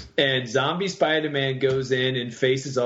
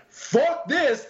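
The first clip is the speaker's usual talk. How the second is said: Sandman swearing; 12 semitones higher than usual. Retold or imitated. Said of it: "And Sandman's like".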